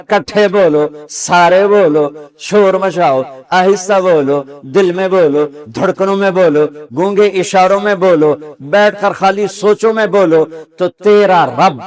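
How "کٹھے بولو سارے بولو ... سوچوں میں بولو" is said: raised, insistent preaching cadence; exhorting divine call. Acted. Preacher voices the Lord telling all to speak, as a rousing exhortation.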